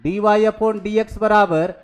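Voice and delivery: very slow, drawn-out dictation. Shown as a demonstration. Teacher writing on the board for students, very slow. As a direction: let them write each word.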